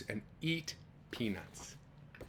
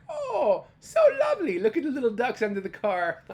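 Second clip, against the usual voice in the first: much higher, gushing fond voice; admiring onlookers; 6 semitones higher, 4 dB louder than usual. Retold or imitated. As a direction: coo over the ducklings. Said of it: "everyone was like".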